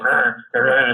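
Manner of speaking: imitated drunken growling noises; incoherent mumbling. Drunk at the bar talking to himself, incoherent mumbling.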